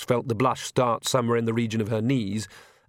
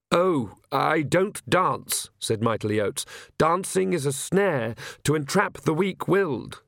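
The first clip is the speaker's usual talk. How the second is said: put-on timid, apologetic young priest, stumbling over words; fretful clergyman who can't get a sentence out; nervous stammering priest; 5 semitones higher, slower than usual. Priest Oates speaks.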